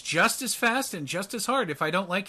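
threatening. Acted. A tough woman threatens the intruder with a slap, threatening. NPC threatens the player's character.

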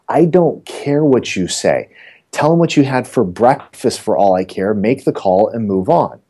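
slow, weighted boss's reply; insistent retold order. Team leader dismissing the agent's question, insistent. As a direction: spell it out slowly, brooking no argument.

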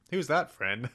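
lightly voiced toddler; a hint of a kid asking; child voice. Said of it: "Or does he refer".

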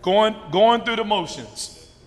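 preaching emphasis. Acted. Preaching push.

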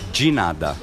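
De nada as jee NAH-dah; Portuguese de nada. Shown as a demonstration. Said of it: "here is".

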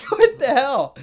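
high, loud disbelief with a laugh before it; a loud what-the-hell; exasperated outburst. Retold or imitated. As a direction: blurt it out, fed up and amazed. Exasperated at the company's email.

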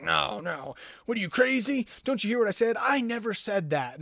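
mock angry denial. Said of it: "he just gets angry and just like".

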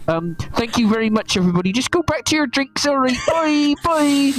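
high, fast, polite voice over a speaker; magically amplified voice of a polite pirate; projected announcement. Acted. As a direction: announce it cheerily over loudspeaker. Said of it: "magically projected voice kinda coming down".

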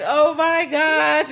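drawn out in slow motion. Retold or imitated. Friend mimics the movie's slow-mo scene, slow and stretched. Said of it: "It's all in slow-mo".

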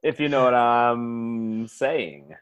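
put-on low southern gentleman accent; genteel southern accent. Southerner hinting to his new partner, southern accent. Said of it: "genteel way that you guys talk".

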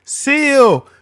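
high, loud laughing shout; hammed-up shout of the name; mock master yell. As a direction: yell it like a comic overseer. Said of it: "He'd be like".

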